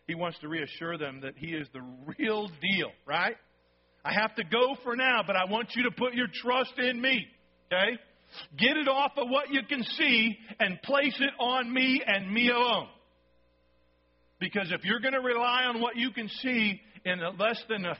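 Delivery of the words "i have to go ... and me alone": lightly voiced Jesus, higher and pressing; a touch of Jesus urging. Jesus urging his disciples to trust him, mildly raised. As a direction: plead gently but firmly, as Jesus.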